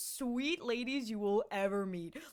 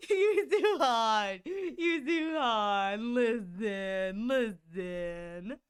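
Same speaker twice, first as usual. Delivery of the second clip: drawn-out teasing; 3 semitones lower, much slower than usual. Real, not acted. Teasing a chatter by name.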